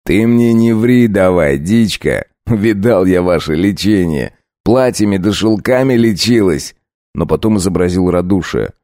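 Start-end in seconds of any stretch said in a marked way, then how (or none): 0.0-6.8 a lightly voiced sneering bandit chief, slow start; a hint of a coarse highway robber; bandit leader. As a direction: menace the girl as a rough robber.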